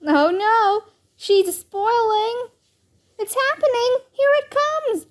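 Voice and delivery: high, rising dramatic panic; hammed-up kid alarm, high and stretched; mock alarm. A narrator's reading. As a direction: pitch climbs as the dreaded thing arrives. Children act out Ivy turning spoiled.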